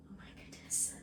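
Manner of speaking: a breathless whispered oh my goodness; awed whisper. Real, not acted. Overcome by her first jar of jam, awed whisper. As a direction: whisper it as if you can't believe it.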